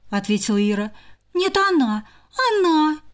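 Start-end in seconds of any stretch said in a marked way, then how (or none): 1.3-3.0 high insistent sister; squabbling. Acted. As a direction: insist childishly. Sisters arguing.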